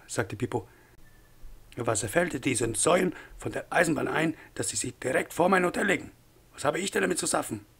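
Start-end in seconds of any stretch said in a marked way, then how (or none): 1.8-7.7 outraged innkeeper, pitch climbing as the complaint builds; indignant hotel owner. Acted. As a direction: protest with rising indignation. Hotel owner protests about railway.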